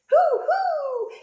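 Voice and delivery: high, loud hoots; hollering owl. A narrator's reading. Owl outraged by the sneeze, high holler. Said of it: "who hollered".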